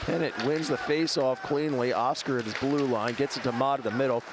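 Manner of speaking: live hockey play-by-play. Acted. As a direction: call the action live. Play-by-play of game.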